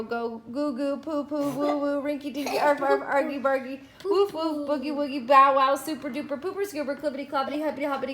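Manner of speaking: fast tumbling rush of words; word flood. Acted. Everyone flooding the air with silly words, tumbling rush. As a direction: let the words pour out.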